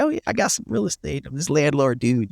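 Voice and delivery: high, fast, show-off voice; bragging new landlord. Retold or imitated. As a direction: brag like a proud first-time landlord. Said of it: "you get the little bragging rights".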